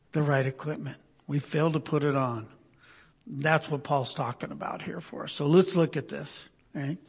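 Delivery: hushed solemn preaching. Acted. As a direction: let each word sink in gravely. Solemn slowed sermon passage.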